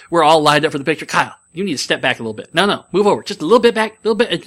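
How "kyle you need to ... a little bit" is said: imitated grandmother ordering, rising higher and louder; bossy grandmother. Grandmother shooing Kyle out of the photo, bossy imitation. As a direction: build insistently, high and loud, as a mock nag. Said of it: "and she honestly".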